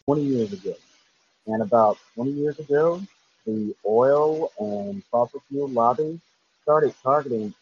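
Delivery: muffled bad phone line; fuzzy, like speaking underwater. Real, not acted. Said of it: "you sound like you're underwater".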